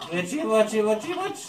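high, loud cackling witch chant. Pretend. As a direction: squeal it like a little witch. Mocking the witch.

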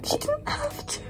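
touched almost to tears; choked up. Real, not acted. Moved to tears by gift.

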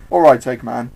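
loud, firm challenge; determined. Acted. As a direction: square up to the villain loudly. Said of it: "Sonic was determined".

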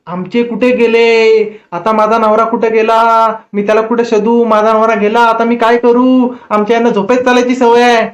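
slow, wailing worried granny; a hint of a frantic old wife; panicky old woman. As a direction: lament the lost husband in a drawn-out wail. Old woman panicking over missing husband.

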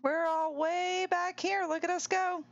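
high, carefree player voice; high playful imitation of a racer; voicing Kitten. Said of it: "Kitten's like".

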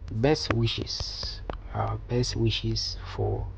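whispering the words while typing them; whispered. Real, not acted. Tutor murmurs the card text to himself as he types, whispered. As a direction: breathe the words softly to yourself as you type.

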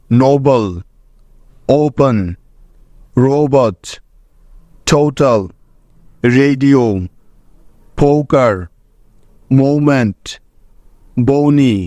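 গো, নো, সো each ending on a long gliding "oh-oo"; teacher reading a word list for students to copy; clear model pronunciation. Shown as a demonstration. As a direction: model each word with a pause after it, stretching the ও vowel in ওপেন into "oh-oo". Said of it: "যেমন দেখো".

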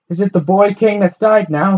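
high, loud shout down to the street. A narrator's reading. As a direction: call down from the window. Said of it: "she shouted down".

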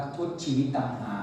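slow and soft, drawn out; slow, sorrowful lament. Acted. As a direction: let the words sag in misery. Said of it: "เขาบอกว่า".

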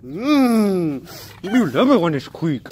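high squeaky playful voice; silly high voice. Acted. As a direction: squeal it like baby talk to a pet. Playful voice to the dog.

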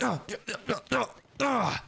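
repeated grunts of exertion; effortful grunts. Acted. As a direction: grunt with each blow. Grunts while smashing brother's PC.

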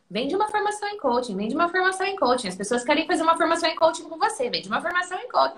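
imitating the husband's insistent nagging. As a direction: pester her over and over, quick and pushy. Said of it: "ele ficava me enchendo o saco".

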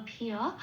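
"ভি অ" as bh, short i, gliding into a; Sanskrit ya-phala. Shown as a demonstration. Teacher explains ya-phala, "ভি অ" sounded bhi-a. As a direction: run short i into a after bh in "ভি অ". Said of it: "ভয় হস্রই অন্তস্থ অ".

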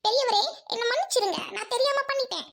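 put-on apologetic child voice. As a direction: apologise like a chastened boy. (பெரியவரிடம் மன்னிப்பு கேட்கும் சிறுவன் குரல்)

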